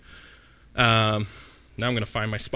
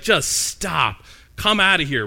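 annoyed Paul; 3 semitones higher, slower than usual. Retold or imitated. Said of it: "being disgusted with her".

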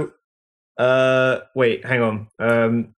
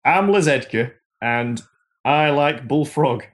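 lightly put-on northern English accent; slow down into a mock northern accent; Les Edgar; slower than usual. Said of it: "horribly given him a northern accent".

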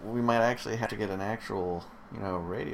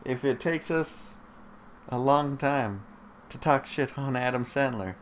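mock solemn vow; 6 semitones higher, 5 dB louder than usual.

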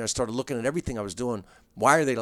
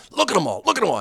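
higher, louder mock gawk at the street; gawking visitor; 6 semitones higher, 6 dB louder, faster than usual. Friend from Pittsburgh staring out the car window, louder mock gawk. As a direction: ham up a wide-eyed out-of-towner staring.

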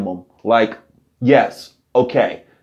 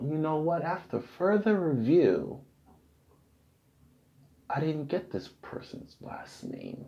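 mock official statement; 2 semitones higher, 15 dB quieter than usual. Mock official report on stalker.

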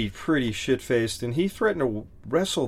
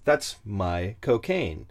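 slow, lowered British drawl on cocaine; mock British accent demo; 2 semitones lower, much slower than usual. Shown as a demonstration. Showing how my cocaine sounds British, slow and hammy. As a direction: stretch out cocaine like a Londoner. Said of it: "Combine those two".

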